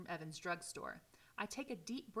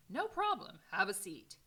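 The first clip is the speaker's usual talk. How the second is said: higher, louder, full of energy; old editor greeting his visitor, high and energetic; 2 semitones higher, 7 dB louder than usual. Acted. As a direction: introduce yourself like a spry old newspaperman. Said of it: "in a high-pitched, energetic voice".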